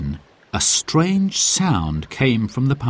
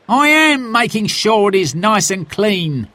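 cross; 12 semitones higher, 3 dB louder than usual. A narrator's reading. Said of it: "He sighed crossly".

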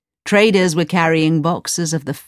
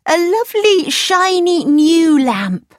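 much higher, louder, slow gushing maid; high gushing servant; delighted servant; 12 semitones higher, 5 dB louder, slower than usual. A narrator's reading. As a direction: present the lamp proudly. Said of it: "she said".

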